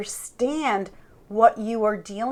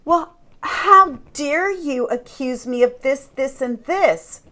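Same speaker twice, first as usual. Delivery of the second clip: mock indignant protest, pitched up a touch; 3 semitones higher than usual. Narcissist answering an accusation, mildly indignant. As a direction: act out affronted disbelief. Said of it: "the form of being indignant".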